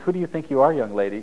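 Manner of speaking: scolding parent, pitch up on who; mock parent scolding. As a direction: play the stern parent demanding who. Parent scolding child, retold.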